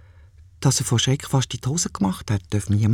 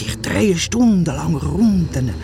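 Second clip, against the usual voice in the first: proud boasting; slower than usual. Acted. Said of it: "Vor lauter Stolz".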